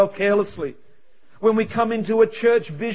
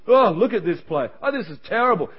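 mock moaning complaint; whining. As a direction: grumble like someone rehearsing the negative. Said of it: "His mate was just whining".

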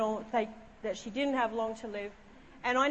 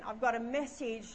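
grave, measured announcement with pauses; really serious. Retold or imitated. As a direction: deliver it solemnly, building to the name. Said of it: "I got really serious then".

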